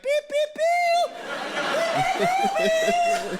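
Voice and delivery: squeaky, very high, loud robotic beeps with laughter; censor beeps. Retold or imitated. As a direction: beep it out like a censor bleep, way up high. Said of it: "it'd be like".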